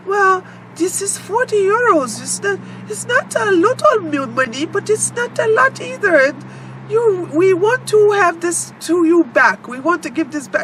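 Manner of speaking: a lightly voiced pleading bank employee; imitating bank clerk. Quoting the bank man.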